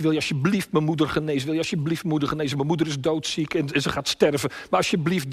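hurried, mildly urgent plea; imitated begging. Small boy begging the lion for his mother, imitated pleading. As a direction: rattle out the request, pleading lightly. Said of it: "dan smeekt hij".

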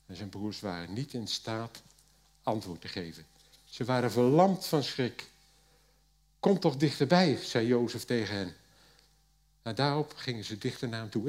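steady reading voice for the Bible text; scripture reading. Acted. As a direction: read the passage out to the congregation. Reads Genesis passage aloud. (voorlezen uit de Bijbel)

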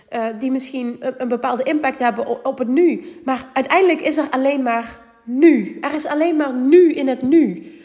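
blocked nose from a cold; stuffy nose. Real, not acted. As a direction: talk through a head cold. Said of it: "Ik ben verkouden, zoals je hoort".

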